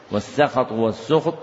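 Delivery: والسخط said first as "sukht" with the sin given damma, then as "sakhat" with fatha; two readings shown. Shown as a demonstration. Teacher shows students both readings of والسخط, sukht then sakhat. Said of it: "فالسخط تضم سينه وتفتح".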